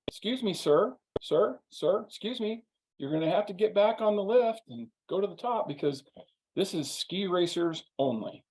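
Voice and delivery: a hint of a young woman calling after a skier; lightly voiced operator telling him to ride up; lift operator. Young lady lift operator saying.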